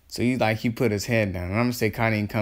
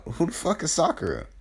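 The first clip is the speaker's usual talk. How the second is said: mock blurt out loud; 6 semitones higher than usual. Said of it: "just out loud".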